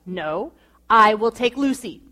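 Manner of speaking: a mild, imitated sharp refusal, stress on I; firm, clipped-off final word on it. Husband shutting down his wife's offer, mock sharp tone. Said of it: "he said it in that sharp tone".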